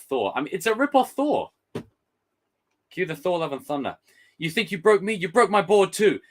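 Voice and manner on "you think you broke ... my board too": higher surfer whine; high laid-back surfer; surfer dude voice. Retold or imitated. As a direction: keep the surfer dude going. Surfer voice continues.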